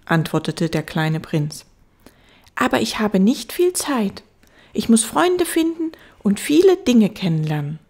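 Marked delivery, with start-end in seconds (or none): 2.5-7.8 put-on high, loud child voice; little prince. Little prince explaining himself to the fox, high child voice. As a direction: explain as a busy small boy.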